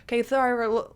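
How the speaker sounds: a playful hint of the psychic's patter, running on; Anthony Williams impression. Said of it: "he kinda talks like this".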